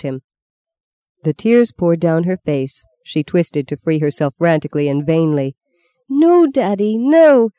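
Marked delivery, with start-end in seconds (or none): 6.1-7.5 high-pitched frantic begging; shrill pleading. A narrator's reading. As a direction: beg desperately in a high child's voice. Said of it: "she shrilled".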